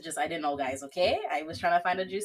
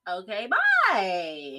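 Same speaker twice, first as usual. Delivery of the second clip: dismissive goodbye; much slower than usual. Retold or imitated. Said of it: "I literally would've been like".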